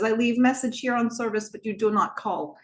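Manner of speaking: lightly imitated Eastern European accent. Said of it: "imitating an Eastern European accent".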